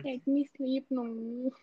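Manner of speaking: mock tantrum, pitched a bit up; half-playful childish protest; little girl's tantrum. Little girl begging her parents to let her sleep, mock tantrum. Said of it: "like, throwing a tantrum".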